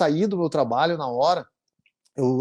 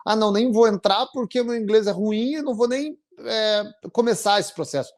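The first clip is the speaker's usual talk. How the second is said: lightly voiced, raised pitch, whiny doubt; mock the hesitant newcomer, pitched higher; imitating a discouraged applicant; 5 semitones higher than usual. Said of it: "as pessoas já acham que". (imitando um candidato desanimado, voz mais aguda)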